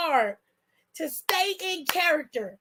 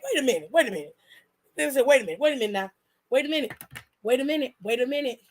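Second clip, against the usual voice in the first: imitating Roman's menace; 4 semitones lower, much faster than usual. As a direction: drop the voice low and repeat it like a threat. Roman's slow menacing reaction retold.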